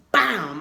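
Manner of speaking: loud, punchy "bam" sound effect; imitated impact bam. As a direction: punch it out like a shove landing.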